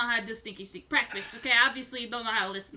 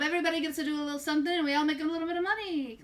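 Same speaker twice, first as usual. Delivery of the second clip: carnival barker; 4 semitones higher than usual. Acted. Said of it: "Why do you sound like a carnival barker".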